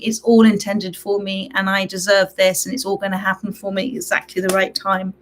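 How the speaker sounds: slightly croaky, rough voice; a croaky, worn-out voice. Real, not acted. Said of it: "I'm sorry about my croaky voice".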